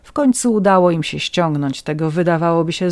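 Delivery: plain reading voice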